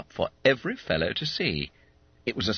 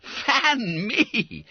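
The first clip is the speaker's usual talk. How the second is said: high, mock-faint astonishment; gasped. Schoolmate seeing the unexpected money, gasping. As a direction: exclaim as if overcome. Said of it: "gasped Bob Cherry".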